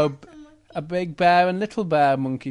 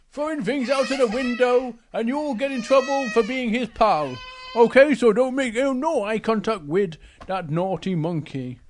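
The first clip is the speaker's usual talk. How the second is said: lightly voiced bear, warning with rising urgency; Big Bear; 5 semitones higher than usual. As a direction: lecture the cub, building higher. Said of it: "Big Bear says to Little Bear".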